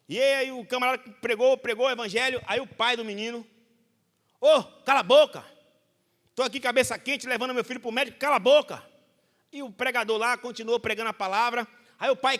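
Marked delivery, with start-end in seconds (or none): 4.4-8.8 pai irritado. Retold or imitated. Pai irritado manda pregador calar.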